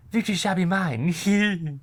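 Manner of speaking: high, drawn-out cartoon catchphrase; theatrical high-pitched Family Guy impression; Stewie. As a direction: declare it slowly in a high cartoon villain voice. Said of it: "I'm Stewie".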